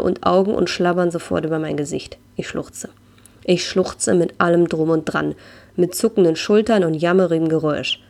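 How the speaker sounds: calm storyteller reading a memoir aloud; story narration. A narrator's reading. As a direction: read it like an audiobook chapter.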